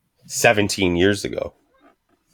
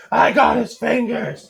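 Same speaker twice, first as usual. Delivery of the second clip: much higher, slow, whimpering voice; whiny friend; 13 semitones higher, slower than usual. Retold or imitated. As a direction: play the friend about to cry. Crying friend at hospital.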